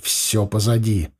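slow, soothing reassurance; gently calm her down; reassuring. Acted. Son calming his upset mother, slow and gentle. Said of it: "Постарался я успокоить её".

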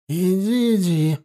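mildly scornful send-off; understated contempt; grudging dismissal. A narrator's reading. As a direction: wave her away with a drawn-out scoff. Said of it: "процедила Никифоровна".

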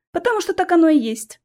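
high, mocking scoff; a mocking put-down. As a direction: snort it back at him. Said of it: "фыркнула Алиса".

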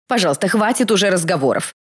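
mildly exasperated photographer's plea; pleading. A narrator's reading. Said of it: "взмолился фотограф".

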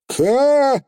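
high, stretched unsure Ka; high drawn-out pixie; drawn-out Feegle. Acted. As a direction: drag the syllable out while thinking. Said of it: "протянул Фигль".

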